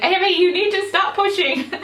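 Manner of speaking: mimicking her husband's cross order during the birth; mock angry husband. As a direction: imitate his cross order with a laugh. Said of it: "saying it like he was angry".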